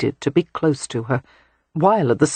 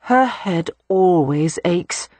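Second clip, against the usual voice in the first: dry sister-in-law; 2 semitones higher, much slower than usual. Acted. Audrey rolls eyes.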